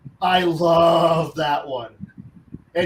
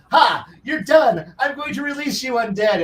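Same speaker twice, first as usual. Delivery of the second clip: gloating necromancer; 6 semitones higher than usual. Retold or imitated. Necromancer crowing at his undead in a mock triumph. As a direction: crow over the undead like a smug caster. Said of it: "Which only leads to".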